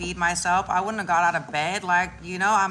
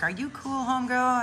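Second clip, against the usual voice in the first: higher, casual check-in; friend on the phone; 6 semitones higher than usual. Retold or imitated. The friend calls to check on her, higher casual voice. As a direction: sound like a friend calling. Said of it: "my friend would call me and be like".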